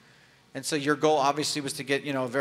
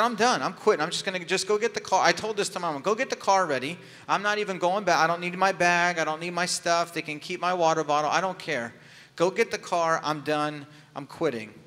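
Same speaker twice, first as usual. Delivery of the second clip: put-on loud, raised-pitch kid's outburst to mom; whiny shout; 3 semitones higher, 4 dB louder than usual. Boy at the race shouting at his mom that he quits, loud and whiny. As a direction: shout it like a worn-out kid who wants to quit now.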